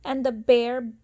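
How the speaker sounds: lilting storybook read-aloud; sing-song rhyming narration; reading to children. A narrator's reading. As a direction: read it like a bedtime picture book. Reading picture book aloud.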